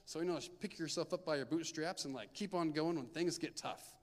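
breezy, sing-song voice for cheap comfort; mocking glib advice. Youth leader mocking verses that sound glib, breezy and sing-song. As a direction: brush off the pain with a bright, easy lilt. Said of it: "just say".

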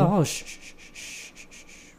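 urgent whispered shh; shushing. Real, not acted. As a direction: hush them under your breath. Shushing the co-host.

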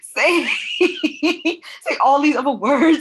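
loud, high, drawn-out goading; gleeful high-pitched taunt; teasing demand. Retold or imitated. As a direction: imitate an excited friend egging someone on. Retold teasing about accent.

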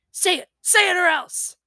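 bully your sister in fun; high loud mock threat; playful threat. Brother fox threatens playfully.

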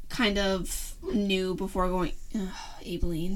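soft unvoiced whisper trailing off. Real, not acted. Host trailing off into a whisper noticing the cat at the door. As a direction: drop to a hush as the pet distracts you.

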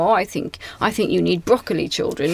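put-on lightly condescending, talking down to children; a hint of a lofty know-it-all; mock superior tone. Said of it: "from a position of distance and superiority".

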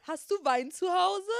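high, loud mocking mother. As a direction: mimic her greedy ask.

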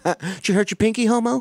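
high, laughing mock sympathy; mocking taunt. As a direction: tease him like a cruel kid. Mocking the crying dad.

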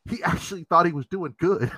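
chuckling through the words; amused disbelief, giggling; laughing. Real, not acted. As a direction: laugh as you say it.

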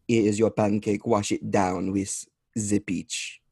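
a hint of a French accent, slow on the last line; light French accent. Juliette Binoche's character handing Dan his burnt pancake, light French accent. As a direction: lightly put on a French accent as she hands over the pancake. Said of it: "a little French accent".

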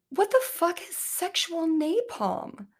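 high, slow, laughing what the fuck; laughing disbelief. Real, not acted. Mocking the quote, laughing.

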